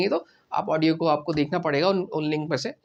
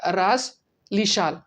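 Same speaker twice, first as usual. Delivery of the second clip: "रास लिशाल" drawn out very slowly; slow model phrase; slow Russian; much slower than usual. Shown as a demonstration. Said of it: "या नी".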